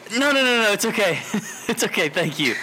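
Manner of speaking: high, rushed "no, no, no"; flustered. Retold or imitated. Clerk ending the call in a fluster, high. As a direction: hurry off the line.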